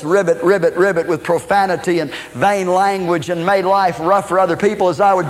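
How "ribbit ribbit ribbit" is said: froggy voice. Retold or imitated. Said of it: "cry out in my froggy voice".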